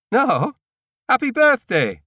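high, loud shouted birthday wish; shouted greeting. A narrator's reading. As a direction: call it out gleefully. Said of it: "shouts back".

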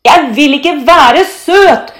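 slow, high, loud refusal; protesting shout. A narrator's reading. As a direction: yell each word in defiance. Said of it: "roper Thor". (trassig, langsomt rop)

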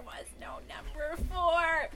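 slow whispered reveal; whispered punchline. Real, not acted. Punchline of prank story.

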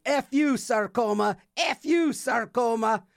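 high-pitched imitated rallying cry; mock defiant slogan. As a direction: chant it like a campaign slogan.

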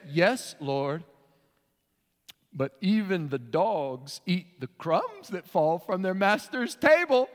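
slow, humble pleading answer; lightly voiced faithful woman; the woman's reply. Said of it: "She said".

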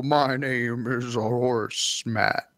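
slow, lightly voiced cartoon horse; a hint of a goofy cartoon horse. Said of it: "What would you sound like?".

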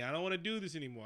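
"I don't wanna do this anymore" in a light put-on accent, said fast. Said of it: "I don't know why I'm using that accent".

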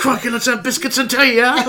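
a lightly done posh Brit; mock British accent. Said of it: "I think that's Australian".

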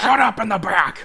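high hammed-up yell; playful angry shout to the back; mock angry bus driver. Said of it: "one of those angry bus drivers".

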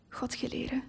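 unvoiced whisper of the curse "Godgeleren". Girl copies her father's curse in a whisper. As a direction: breathe "Godgeleren" with no voice, a secret swear. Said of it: "fluisterde ik".

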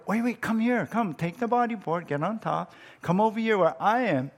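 put-on a dad coaxing his little girl into the waves; calling to daughter. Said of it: "And I told her".

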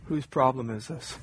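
quiet, rising repeat of the question. Shown as a demonstration. Pastor repeats the question to the church, quietly. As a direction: let the question sink in softly.

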